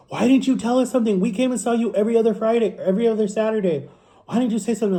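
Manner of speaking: lightly acted pleading, no real sobs; retold tearful reproach. Sister hugs narrator, asking why they stayed silent, mildly upset plea. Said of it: "She's crying. She hugs me and goes".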